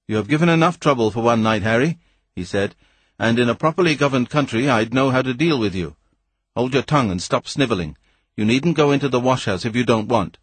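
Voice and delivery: lightly voiced impatient scientist; gruff Weston. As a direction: brush the stranger off with contempt. Weston scolding the boy.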